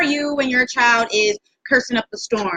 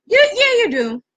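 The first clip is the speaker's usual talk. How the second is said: quick, higher, half-shouted accusation; fast accusing rant; 6 semitones higher than usual. Acted. Host calling out a parent, fast half-shout.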